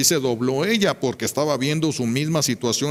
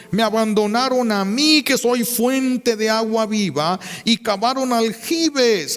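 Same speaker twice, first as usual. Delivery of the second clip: high, slow, preached out; full preaching force; voice of the Lord; 8 semitones higher, slower than usual. Acted. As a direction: proclaim it slowly as God's word. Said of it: "Por eso dice el Señor".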